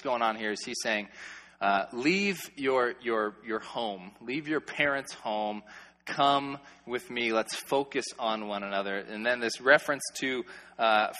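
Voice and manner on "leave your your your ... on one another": gentle invitation. Acted. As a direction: draw her away gently, slowly. Voicing groom's invitation.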